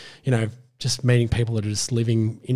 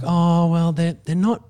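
higher, hedging mock producer voice; retold excuse, pitched up and drawn out; mock excuse-making; 7 semitones higher, 4 dB louder, slower than usual. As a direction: imitate someone making a sheepish excuse. Retelling producers' excuse for not paying.

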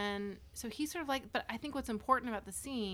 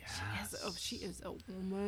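awed whisper; 5 dB quieter than usual. Pretend. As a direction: whisper it with reverence.

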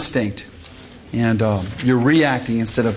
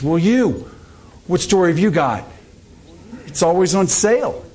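comic Jewish wife; 6 semitones higher than usual. Acted. Foreman quoting Jewish wife.

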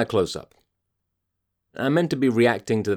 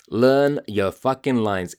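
slower, spelled out; slow emphatic; slower than usual. Real, not acted. Host drilling advice into actors, slow. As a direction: lay each word down deliberately. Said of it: "I'm so angry".

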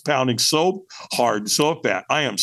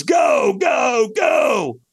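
high, rising run of retold shouts; urgent send-off shout; 11 semitones higher, much slower than usual. Trainer sending a firewalker onto the coals, urgent shouts. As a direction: launch the runner with each word.

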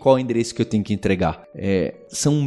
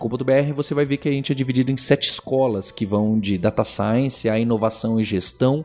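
ad read; 3 semitones higher than usual. Acted. Sponsor ad reads.

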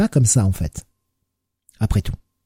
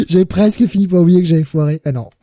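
en riant; 5 semitones higher, 3 dB louder than usual. Real, not acted. Encore en train de rire.

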